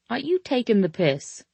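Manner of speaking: lightly voiced British man, amused; he asks it the British way, teasing; British accent. Man teases the tipsy narrator in a British accent. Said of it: "doesn't really work so well in an American accent".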